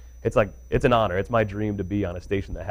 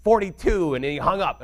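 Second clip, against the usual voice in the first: whiny listener; 9 semitones higher than usual. Retold or imitated. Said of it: "when people are like".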